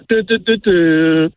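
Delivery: sing-song cadence impression; Foodie Justice cadence. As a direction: deliver it in a sing-song rhythm. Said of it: "you have the Foodie Justice cadence wrong".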